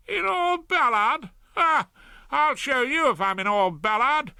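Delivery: high, loud indignant cry; a proud man stung into a loud, high protest; indignant outburst. Acted. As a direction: scoff at the very idea, loudly.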